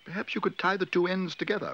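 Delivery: high, hopeful little bear voice; hopeful high-pitched suggestion. A narrator's reading. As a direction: offer a timid fix, pitched well up. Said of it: "said Paddington hopefully".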